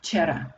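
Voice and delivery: "Včera" said as fčera with f; f instead of v. Shown as a demonstration. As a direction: begin "Včera" with an f sound, not v. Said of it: "we say f instead of v".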